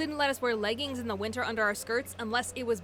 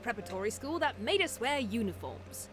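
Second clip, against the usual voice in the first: put-on British accent; 4 dB louder than usual. Narrator recalling her prep school days, lightly put-on British accent. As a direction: tell it in a mock British accent. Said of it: "said that in a British accent".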